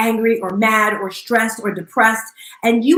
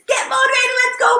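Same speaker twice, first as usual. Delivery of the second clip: pumped-up trainer call. Retold or imitated. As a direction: fire up the class like a fitness coach. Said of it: "normally on Saturdays, it's".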